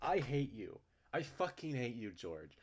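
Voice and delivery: fed-up shout of I hate you; angry outburst. Real, not acted. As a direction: vent real frustration, loud. Angry rant at game writer.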